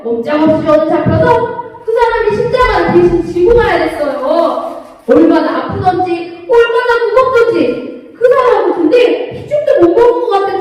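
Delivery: lightly voiced Simon recounting his cross, sing-song storytelling; Simon of Cyrene telling. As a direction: tell it as the man who carried the cross, in a lively sing-song. Teacher plays Simon of Cyrene. (십자가를 진 시몬처럼 노래하듯 이야기하기)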